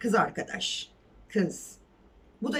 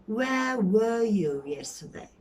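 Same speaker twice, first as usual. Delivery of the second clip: slow, accusing "Where were you yesterday?"; angry question; slower than usual. Shown as a demonstration. Angry parent asking where the child was yesterday. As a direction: call them to account. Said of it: "Hesap soruyor, kızgın".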